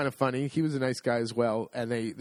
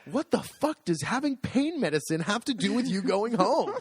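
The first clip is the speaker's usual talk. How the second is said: higher, exasperated nurse snapping; a hint of a nurse losing patience; fed-up cursing nurse; 8 semitones higher than usual. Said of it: "she cursed at me".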